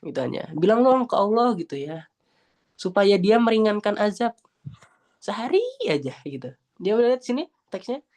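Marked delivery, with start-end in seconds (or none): 0.5-1.6 high, slow mock pleading. The damned urge hell's keepers to ask God, pleading. 2.8-6.1 high, drawn-out mock plea; pleading. The damned beg for one day's relief from torment, pleading.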